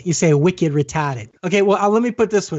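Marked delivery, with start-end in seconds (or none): 0.3-1.3 slow Boston accent, R dropped. Shown as a demonstration. Host mimicking how Bostonians talk, slow Boston accent. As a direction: draw it out like a Bostonian. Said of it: "And you all say".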